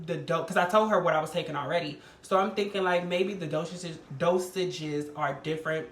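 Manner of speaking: talking around a retainer; words slurred by a retainer; wearing a retainer. Real, not acted. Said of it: "I got my retainer in my mouth".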